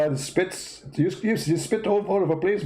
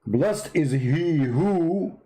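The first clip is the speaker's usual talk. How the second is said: slow reading; much slower than usual. Acted. Mock-reading a verse slowly.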